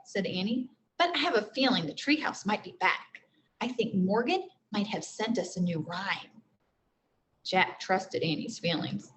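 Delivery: expressive read-aloud narration; teacher reading a chapter book to the class; story reading to children. A narrator's reading.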